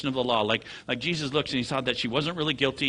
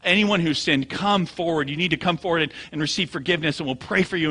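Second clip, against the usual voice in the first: louder, higher urgent altar call; preaching at them; 5 semitones higher, 5 dB louder than usual. Retold or imitated. Preacher calling sinners forward at a couple, urgent mock preaching. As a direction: press them hard, like an imitated preacher. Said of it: "he started preaching at them and saying".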